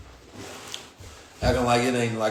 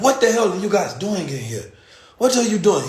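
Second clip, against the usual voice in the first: mock angry shout, higher; imitating an irate owner, raised and loud; angry hotel owner; 8 semitones higher, 5 dB louder than usual. Owner storms in on the police, angry raised voice. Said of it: "He's, he's angry".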